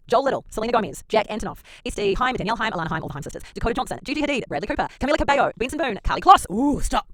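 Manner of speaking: high, squeaky chipmunk voice; sped-up chipmunk voice reading names. Pretend. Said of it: "Roll the chipmunk voice".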